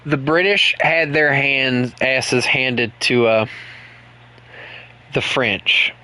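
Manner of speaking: slow, tentative southern accent; a stumbling, half-hearted try at a southern American accent; a streamer trying out a slow southern accent on chat. Shown as a demonstration. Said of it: "Let me, let me do my southern accent".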